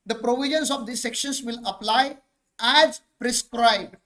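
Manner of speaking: reads the legal wording out very slowly, word by word; slow dictation. Shown as a demonstration. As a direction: dictate the clause slowly so students catch each word. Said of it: "wording क्या लिखी जाती है?".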